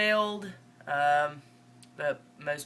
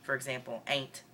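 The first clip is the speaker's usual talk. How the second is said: Northern Mississippi accent. Real, not acted. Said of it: "try really hard for this whole video".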